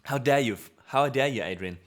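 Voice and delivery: playful fake indignation; mock outrage. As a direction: ham up being offended. Mock outrage at chat member.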